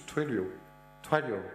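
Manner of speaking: Twilio as "Twai-lio" in a French accent; French-accented Twilio, first syllable like "twy". Real, not acted. Repeating the company name for the interviewee, French accent. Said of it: "my terrible French accent".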